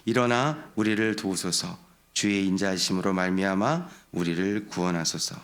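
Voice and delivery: steady recited verse; scripture reading. Real, not acted. Pastor leading the congregation in the psalm verse, steady. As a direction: read aloud together with the congregation. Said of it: "같이 한번 읽어보겠습니다".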